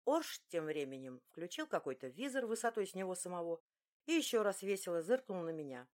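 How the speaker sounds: ordinary delivery, nothing marked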